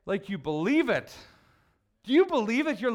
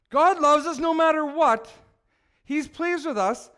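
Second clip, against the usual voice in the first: fervent preaching; 8 semitones higher, 6 dB louder than usual. Real, not acted. Preacher's climactic proclamation.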